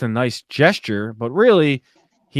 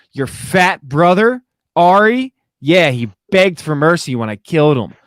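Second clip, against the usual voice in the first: raised, louder mock taunt; retold taunting scream; 4 semitones higher, 4 dB louder than usual. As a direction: imitate a defiant yell, only half shouted. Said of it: "he screamed that".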